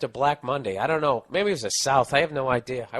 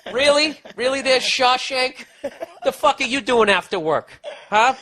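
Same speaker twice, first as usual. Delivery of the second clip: sarcastic mock; 11 semitones higher, 7 dB louder than usual. Host taunting the work-release cook, loud sarcasm. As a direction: needle him with exaggerated disbelief. Mocking the ex-con dishwasher.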